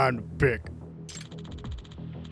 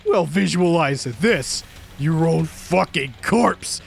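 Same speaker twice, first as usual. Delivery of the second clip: louder, snarling abuse; raging boss; 3 dB louder than usual. Acted. Producer raging at the developer who quit, snarling. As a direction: tear into him for quitting.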